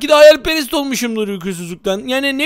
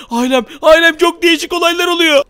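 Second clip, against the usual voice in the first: loud, raised alarm call; shouting the news in a fright; 4 semitones higher, 3 dB louder than usual. Acted. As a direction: rush to warn the family. Yelling to family in alarm.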